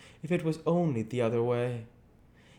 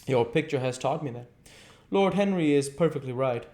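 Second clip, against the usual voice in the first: higher, louder bitter outburst; hurt and jealous, voice rising; a hint of a flushed angry youth; almost angry; 10 semitones higher, 6 dB louder than usual. A narrator's reading. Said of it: "He seemed almost angry".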